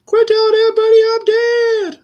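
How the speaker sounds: very high, loud mock outburst; exasperated husband skit. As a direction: yell it in a silly high-pitched protest. Husband protests in referenced skit.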